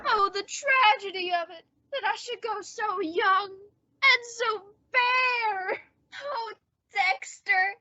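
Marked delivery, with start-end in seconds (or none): 0.1-5.8 mock-tragic deathbed. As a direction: play the tragic hero to the hilt. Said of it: "pull this deathbed gag".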